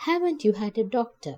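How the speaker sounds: quick, fast, a touch of shock; astonished question. Acted. Nancy asks the injured old woman, fast and mildly astonished. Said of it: "Nancy asked in astonishment".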